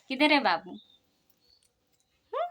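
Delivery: laughing through a playful question. Real, not acted. Mother laughing as she asks her son where baby is, laughing. Laughing while asking toddler.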